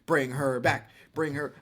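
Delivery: put-on chanting in a frat boy voice; frat bro. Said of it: "You sounded like a terrible frat boy".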